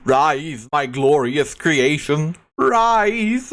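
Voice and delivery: mad scientist. Acted. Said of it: "Mega Mind joke".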